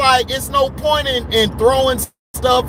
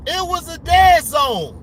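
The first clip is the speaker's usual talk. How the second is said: angry; 3 semitones higher than usual. Real, not acted. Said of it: "I was so mad".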